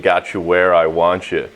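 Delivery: low, anticlimactic punchline delivery; booger-picking cousin. Acted. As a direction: drop the menace for the silly reveal. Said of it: "his cousin Melvin sitting in his bedroom with a booger on his finger saying".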